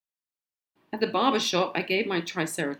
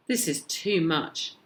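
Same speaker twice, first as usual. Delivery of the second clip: protested; slower than usual. Acted. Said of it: "my mum protested".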